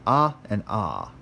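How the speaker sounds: "ah" short, then "ah" held; short then long ah. Shown as a demonstration. Teacher contrasting short and long alpha sounds. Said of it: "it's held longer".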